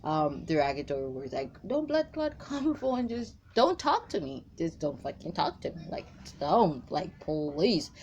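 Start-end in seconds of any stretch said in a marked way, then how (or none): 1.6-4.5 higher Jamaican patois, laughing mid-line; Jamaican accent. Pretend. Reader voicing the woman's Jamaican brush-off, half laughing. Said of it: "using Jamaican".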